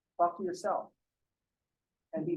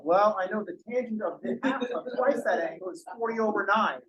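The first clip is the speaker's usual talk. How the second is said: a lightly voiced folksy farmer, a bit higher, matter-of-fact; Farmer Bill; 3 semitones higher than usual. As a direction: play the farmer who answers in odd trig facts, lightly drawn. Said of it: "well, Farmer Bill".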